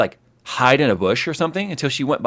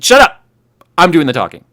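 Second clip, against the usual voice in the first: much higher and louder imitated yell; mock-mom shout; 4 semitones higher, 9 dB louder than usual. Mother yelling over her son's excuse, a hammed-up loud shout. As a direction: shout him down like the mom in charge. Mom cutting off son, retold.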